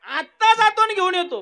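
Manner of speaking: high, loud mouse voice; eager mouse. Acted. Mouse boasts he'll grab another carrot, high and eager. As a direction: dart off like a sly mouse.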